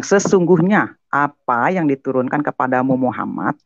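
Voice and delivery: verse quoted in a reciting tone; measured quoted reading. Retold or imitated. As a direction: read the verse as it is written.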